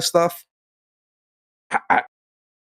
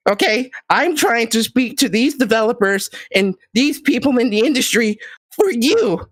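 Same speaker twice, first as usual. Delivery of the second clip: higher, smarmy politician pitch; gaming politician voice; 3 semitones higher than usual. Pretend. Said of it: "Let me put my gaming politician voice on".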